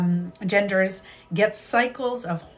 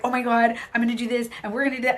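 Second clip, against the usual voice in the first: excited; 4 semitones higher, much faster than usual. Retold or imitated. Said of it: "you're like".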